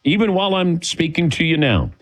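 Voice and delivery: smooth live radio ad read. Acted. Host reads the insurance ad on air, smooth ad voice. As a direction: sell it to the listeners, steady and upbeat.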